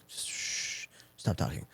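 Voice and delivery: unvoiced "Shh" then a soft stop talking; hushing. Healer telling the chattering client to stop talking, hushed. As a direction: hush him like a healer cutting him off.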